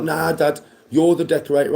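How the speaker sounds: high-pitched imitation of protesting sons; mock protesting sons. Sons dodging decorating work with their dad, mock protest. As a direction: object like a put-upon kid, pitched high. Voicing his sons' objection.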